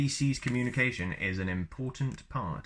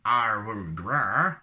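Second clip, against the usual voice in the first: Wookiee groan; 5 dB louder, much slower than usual. Shown as a demonstration. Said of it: "and I'm feeling sick".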